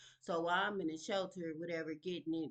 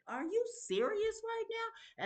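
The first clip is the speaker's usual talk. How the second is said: much higher, slow, stretched disbelief; outraged disbelief; slower than usual. Retold or imitated. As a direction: stretch it out, stunned and indignant. Outrage at stranger in apartment.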